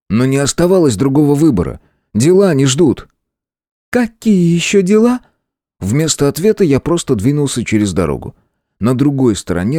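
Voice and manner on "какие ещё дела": put-on demanding girl. A narrator's reading. Sister questioning hero.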